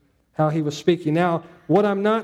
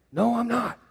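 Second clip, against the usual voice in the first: higher-pitched mock protest; lightly hammed-up denial; acted denial; 5 semitones higher than usual. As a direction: play Peter hastily denying it. Peter's acted denial when called out.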